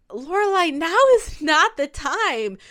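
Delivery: high, firm push back at her mother; firm pushback. Retold or imitated.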